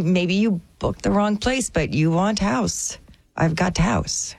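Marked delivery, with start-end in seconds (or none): 1.9-4.3 slow, lightly put-on Eastern European accent; fake Eastern European accent. Would-be home scalper pitching to travelers, mock Eastern European accent. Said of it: "Wait, you'd have an accent?".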